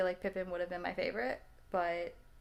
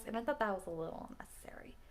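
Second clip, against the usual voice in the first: whispered aside; 6 dB quieter than usual. Real, not acted. Aside during movie review.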